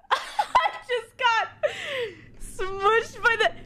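slow words through laughter; laughing at herself. Real, not acted. Squashed in the game, laughing slowly. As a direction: laugh it out while explaining.

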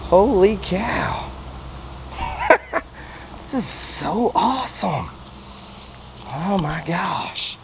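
overjoyed at the catch; delighted. Real, not acted. Lands a very thick bass.

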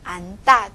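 안大 said an-tta, tense tt; teacher's model of 안大 as an-tta; tensed second syllable. Shown as a demonstration. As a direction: read 안大 with only n closing the first syllable. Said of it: "发这个左边的音".

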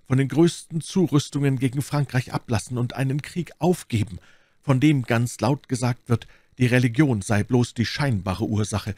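earnest letter reading. A narrator's reading. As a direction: implore through the written words, settling gradually. Reads out the Queen's letter. (eindringlich vorgelesener Brief)

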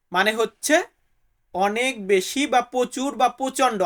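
usual speaking voice

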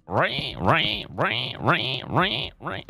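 pig dying noise. Pretend. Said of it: "that's one of the pigs dying".

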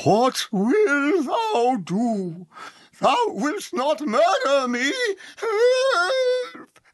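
hammed-up high falsetto crying out; falsetto like a band's singer. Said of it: "one of the band members on an acid trip".

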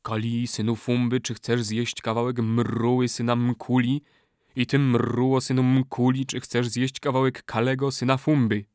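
mildly solemn ritual question. A narrator's reading. Old man officiates at a blood brotherhood rite, solemn. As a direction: put it with measured ceremony. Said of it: "ozwał się uroczystym głosem".

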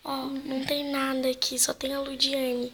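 soft nervous whisper; scared whisper. Real, not acted. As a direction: breathe it out scared. Hushed ghost hunt.

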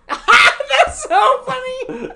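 high, loud, slow laughing line. Real, not acted. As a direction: crack up mid-sentence. Cohost cracking up.

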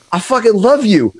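gushing fan. Retold or imitated. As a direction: gush at her like a superfan.

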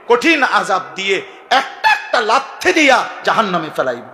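stern preached warning in God's voice; preaching as God. Acted. Preacher voicing God to the young men, stern and rising. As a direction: thunder out the divine reckoning.

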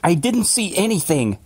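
high-pitched acted outburst, held back in volume; sudden scream. A narrator's reading. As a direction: burst out in panicked denial. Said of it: "Billings screamed suddenly".

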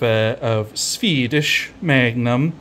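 slow, drawn-out put-on Swedish accent; mock Swedish accent. Homebrewer naming his Swedish hops in mock Swedish accent. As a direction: ham up a Swedish accent on the hop name. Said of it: "sorry for the accent".

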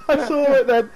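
high, loud panicked laughing yells; screaming in protest. Real, not acted. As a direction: shriek no in embarrassed panic. Screams at nudity on screen.

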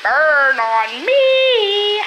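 very slow, loud drawn-out burn; dramatic. Real, not acted. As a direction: stretch it out, mock-wounded. Drawn out self-roast.

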